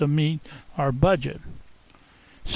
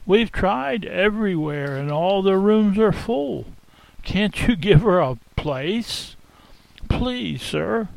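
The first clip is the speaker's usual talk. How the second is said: patient and kind. Acted. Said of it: "But patiently and kindly he responded".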